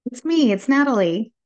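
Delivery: bouncy cartoon plumber accent; Mario voice. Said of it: "I'm gonna talk like Mario".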